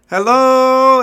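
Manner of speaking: high, booming drawn-out yell; imitated screaming greeting. Customer imitates the shop guy greeting him, screaming. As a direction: holler it like the wild shopkeeper. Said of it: "then he screams at Bo".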